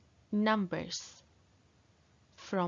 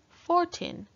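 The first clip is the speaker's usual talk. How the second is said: excited; 10 semitones higher, 3 dB louder than usual. Acted. Counting climax, big jump.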